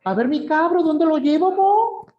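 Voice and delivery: put-on a Santiago cabbie cheerfully offering a young tourist a ride; high, lilting Chilean accent, friendly and casual; Chilean taxi driver. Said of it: "se para a tu lado y dice".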